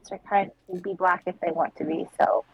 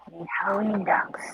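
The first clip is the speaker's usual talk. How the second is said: whispering; 3 dB quieter than usual. Real, not acted. Whispered wish.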